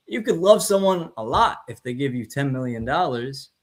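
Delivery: a passing touch of Southern accent; the speaker's Southern accent. Real, not acted. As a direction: slip lightly into a Southern accent. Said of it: "I don't know why I did a Southern accent".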